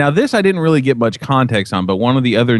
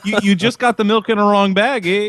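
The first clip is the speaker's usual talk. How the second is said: higher-pitched, hammed-up Canadian accent with a tacked-on eh; clumsy mock Canadian, teasing a Canadian friend; a Canadian accent so bad it drifts toward Mexican; 8 semitones higher than usual. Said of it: "you sound like a Mexican Canadian".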